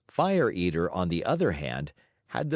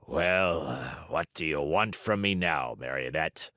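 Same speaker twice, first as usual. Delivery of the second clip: suddenly kindly showman; 5 semitones lower, 3 dB quieter than usual. A narrator's reading. Fire Eater flattered, speaking kindly to the puppet. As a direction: lower and softer, proud but gentle. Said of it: "becoming suddenly kind and compassionate".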